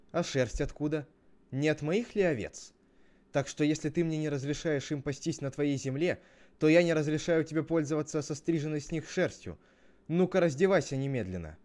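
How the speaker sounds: storybook brother getting cross; angry retort. Acted. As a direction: argue back with rising indignation. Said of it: "пришла очередь Авелю рассердиться".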